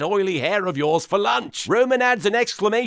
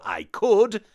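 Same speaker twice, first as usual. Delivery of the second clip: mock catchphrase; much slower than usual. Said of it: "Maybe switch it out for".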